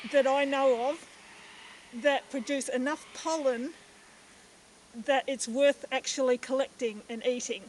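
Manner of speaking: muffled behind a mask; through a face mask. Real, not acted. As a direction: talk through a cloth mask. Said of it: "excuse the mask".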